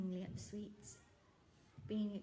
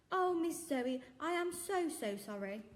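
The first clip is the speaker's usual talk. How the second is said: high, loud heartfelt sympathy; sympathetic shopkeeper; 7 semitones higher, 6 dB louder, slower than usual. Acted. Shopkeeper comforting the girl over her hamster, high and loud. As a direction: pour out sorrow for her.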